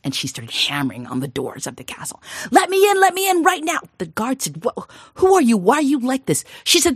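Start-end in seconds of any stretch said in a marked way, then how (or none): 2.5-3.8 high, loud call at the door; shouting demand. Acted. Daughter yelling at the castle gate, high and loud. 4.6-6.4 high, loud confusion; baffled by the odd girl; startled guard. Acted. Guard startled by the girl at the gate, high and loud.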